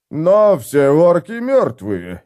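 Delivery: puzzled mumble. Acted. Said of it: "недоуменно пробормотал".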